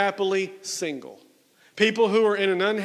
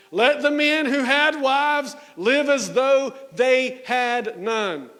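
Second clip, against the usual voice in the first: mock party guy; 4 semitones higher, slower than usual. Preacher mocking guys heading to Vegas, hammed-up bro voice. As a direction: ham it up like a guy treating the verse as a party motto. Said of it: "guys with their flip-flops on heading to Las Vegas".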